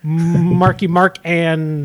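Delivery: deadpan spoken band name; monotone lyric recital. Pretend. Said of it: "like, monotone voice".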